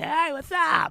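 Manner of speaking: put-on young LA girl voice, raspy, very high. Joking about a sick raspy voice: put-on raspy young LA girl voice. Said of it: "a twenty-year-old girl who moved to L A".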